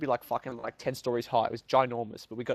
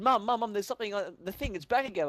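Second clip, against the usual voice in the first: excited; 6 semitones higher than usual. Retold or imitated. Excitedly calling mum about news.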